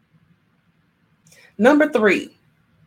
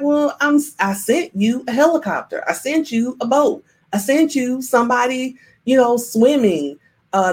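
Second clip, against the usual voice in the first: higher-pitched, exasperated explaining, lightly acted; God answering back; 5 semitones higher than usual. God reminds the man of the help he sent, mildly exasperated. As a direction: list it off as if stating the obvious. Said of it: "And God was like".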